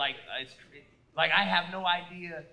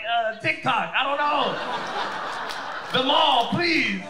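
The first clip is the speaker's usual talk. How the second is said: sheepish high answer; 5 semitones higher, 5 dB louder than usual. Retold or imitated. Answering friend's question.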